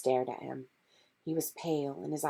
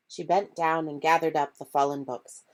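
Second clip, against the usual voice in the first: plain reading voice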